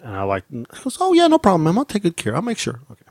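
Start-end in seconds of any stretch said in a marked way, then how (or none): 1.0-2.8 obliging cashier. Retold or imitated. Cashier reassuring a fussy customer, obliging. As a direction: imitate an eager-to-please clerk.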